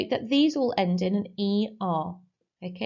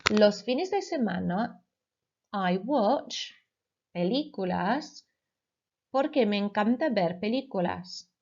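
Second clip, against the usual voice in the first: dictation read. Shown as a demonstration. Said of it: "I will say the Spanish sentence twice".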